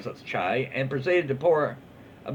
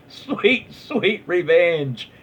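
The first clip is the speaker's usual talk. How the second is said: slow, savouring sweet revenge; slow gloating reading of a chat comment; relishing read; 3 semitones higher, 4 dB louder, much slower than usual. Retold or imitated. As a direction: savour each word like a villain. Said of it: "first comment from Catacombs Three is".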